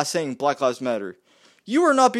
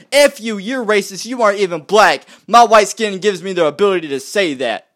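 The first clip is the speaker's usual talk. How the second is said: louder sarcastic parody of a hypocrite; mocking quote; 5 dB louder than usual. Mocking people who preach equality, louder sarcastic voice. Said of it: "To just go out and be like".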